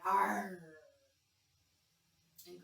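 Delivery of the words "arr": lion roar. Pretend. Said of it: "we're gonna roar like a lion".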